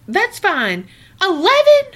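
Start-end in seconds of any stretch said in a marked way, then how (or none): 1.2-1.8 much higher, louder indignant squeal; shocked eleven. Real, not acted. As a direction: squeal the price in outrage. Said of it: "outraged at the price".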